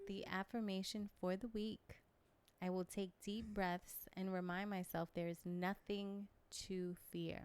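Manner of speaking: seductive, slow, sultry, sexy voice. Reading the affirmation for the week aloud: sexy voice. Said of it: "Why you put the sexy voice on for it?".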